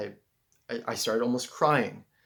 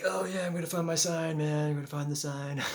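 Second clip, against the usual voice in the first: higher, pumped-up inner voice; eager self-talk; 5 semitones higher than usual. Retold or imitated. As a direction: sell it like you're sure the sign is coming. Hyped self-talk looking for sign.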